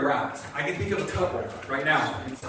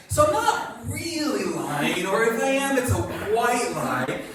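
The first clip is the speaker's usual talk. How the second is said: drawn-out, higher-pitched excuse; self-justifying; 5 semitones higher than usual. Acted. Pastor voices Abraham excusing a lie, self-justifying. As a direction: stretch the words, talking yourself into it.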